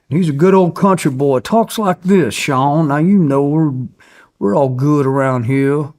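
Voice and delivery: imitating folksy official. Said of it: "Like, that's how he talks".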